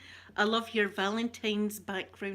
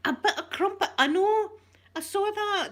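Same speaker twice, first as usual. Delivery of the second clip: laughing; 11 semitones higher, 7 dB louder than usual. Real, not acted. Laughing at viewer's cheeky comment.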